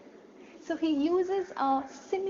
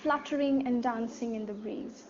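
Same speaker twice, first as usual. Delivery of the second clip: poem recitation. Acted. Teacher reciting Daffodils to the class. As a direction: read the verse evenly with pauses.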